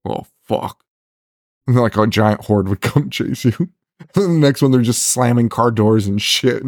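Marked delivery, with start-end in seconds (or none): 0.1-0.8 hushed, breathless oh fuck; mock whisper. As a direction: whisper it like you just tripped near zombies. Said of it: "it'd be like".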